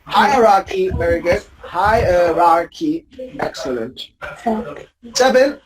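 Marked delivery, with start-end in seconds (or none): 0.0-0.9 Hierarchy stressed on HI, HI-er-ar-chy; stress on first syllable. Shown as a demonstration. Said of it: "First syllable". 1.6-3.1 Hierarchy drawn out, HI-er-ar-chy; slow syllable-by-syllable HI-er-ar-chy; stress on first syllable. Shown as a demonstration. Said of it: "First syllable".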